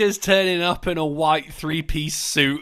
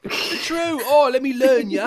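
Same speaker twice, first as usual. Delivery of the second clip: high, hammed-up English accent; jokey English put-on; mock English accent; 4 semitones higher, 4 dB louder than usual. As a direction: pitch it up into silly English. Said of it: "made fun of an English person for their accent".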